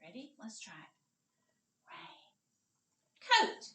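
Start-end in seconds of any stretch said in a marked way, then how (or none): 1.9-2.3 soft, voiceless whisper. Shown as a demonstration. Teacher demonstrating half a compound word, whispering. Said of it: "whisper and say". 3.2-3.6 high, very loud single-word burst. Shown as a demonstration. Teacher demonstrating the word's second half, out loud. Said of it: "say coat out loud".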